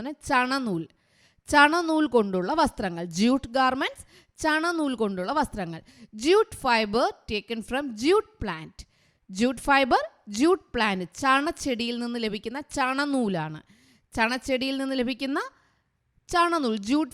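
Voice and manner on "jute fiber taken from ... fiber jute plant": each word spaced out very slowly for writing down; teacher dictating at a crawl; slow dictation. Shown as a demonstration. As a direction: read it out slowly so the class can copy it. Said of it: "നിങ്ങൾ എഴുതിക്കോളുക കേട്ടോ".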